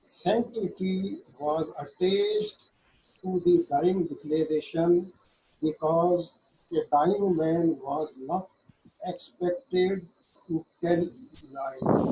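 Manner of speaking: slow, deliberate reading of legal text; slow statute reading. Shown as a demonstration. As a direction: read the act slowly, word by word, as if dictating. Reads judgment text aloud. (धीमे-धीमे क़ानून की धारा पढ़ना)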